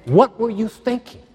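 high, pleading cries toward heaven; anguished questions to God. Retold or imitated. Preacher crying out his questions to God. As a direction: ask God why, voice straining upward.

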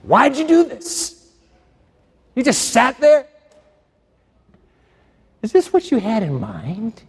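high, pleading cries toward heaven; anguished questions to God. Retold or imitated. Preacher crying out his questions to God. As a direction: ask God why, voice straining upward.

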